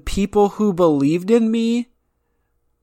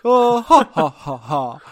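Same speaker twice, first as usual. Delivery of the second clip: imitated pity laugh; 3 dB louder than usual. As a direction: imitate an insincere 'oh, ha, ha, ha'. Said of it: "So you decide to just say".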